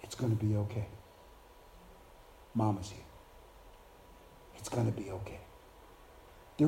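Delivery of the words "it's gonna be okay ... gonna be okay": put-on a gentle, quiet mother soothing her child; softly comforting a crying child; soft motherly reassurance. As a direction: hush and comfort a hurt child. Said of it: "And she whispered to you".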